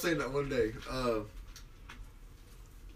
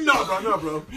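mock protest; 4 semitones higher, 7 dB louder than usual. Acting out a protest.

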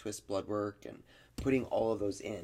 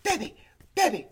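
high cooing voice; 7 dB louder than usual. Retold or imitated. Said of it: "Oh my God".

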